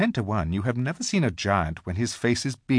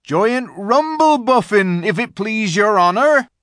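deferential rustic giant; 12 semitones higher, 8 dB louder than usual. A narrator's reading. Giant gives Aslan his name, loud and respectful. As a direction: call down respectfully in a big country voice. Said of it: "said the giant".

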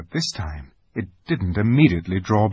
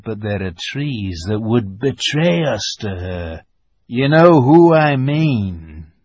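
lisping buck-toothed beaver; 3 dB louder than usual. Acted. Beaver voiced by narrator.

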